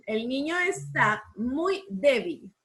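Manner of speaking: El niño está muy débil repeated slowly and evenly; teacher repeating the dictation. Shown as a demonstration. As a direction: dictate the sentence again, steady and slow. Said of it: "¿Dónde llevará tilde?".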